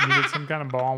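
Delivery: laughing while talking. Real, not acted. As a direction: chuckle through the words. Dad laughing at daughter's miming.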